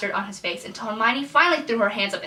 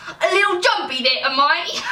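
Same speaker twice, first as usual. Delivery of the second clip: higher-pitched put-on British accent; attempted British accent; 6 semitones higher than usual. Fred teasing jumpy Hermione, in a British accent. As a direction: tease in a playful British accent. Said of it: "read the dialogue in my American accent".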